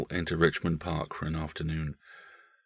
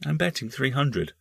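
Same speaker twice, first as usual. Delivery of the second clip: put-on higher-pitched, solemn child voice; grave small boy; 7 semitones higher than usual. Boy telling his uncle his bet, grave. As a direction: state it solemnly as a young boy. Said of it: "said the boy gravely".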